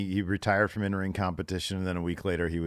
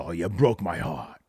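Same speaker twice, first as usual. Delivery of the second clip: lightly voiced movie quote; a hint of a film character impression; imitating Michael; 4 dB louder than usual. Retelling Godfather Two's party scene, lightly imitating Michael. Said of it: "And he does the".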